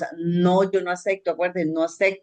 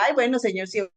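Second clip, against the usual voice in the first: half-hearted prayer; 5 semitones higher than usual. Retold or imitated. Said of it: "pero no cuando yo diga".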